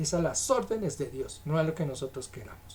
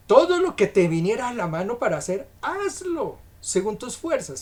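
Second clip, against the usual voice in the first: emphatic scripture reading; 5 semitones higher, 5 dB louder than usual. Acted. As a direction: drive the verse home to the congregation. Repeats the verse to congregation.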